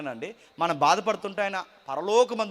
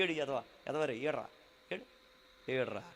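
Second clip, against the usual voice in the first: mock cooing tease; 5 semitones lower, 9 dB quieter than usual. Cruel caregiver teasing a crying child.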